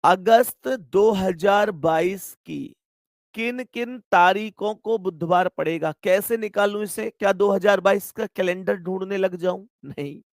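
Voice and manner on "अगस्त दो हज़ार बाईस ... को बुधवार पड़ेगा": slow, deliberate re-reading of the question; teacher rereading word by word, slowly. Shown as a demonstration. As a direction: spell the question out slowly for the class. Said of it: "सवाल कह रहा है".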